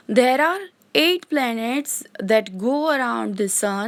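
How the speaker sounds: very slow, word-by-word reading of notes; dictation. Shown as a demonstration. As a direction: read it out slowly for students to copy. Teacher dictating English notes. (धीमे-धीमे बोलकर लिखवाना)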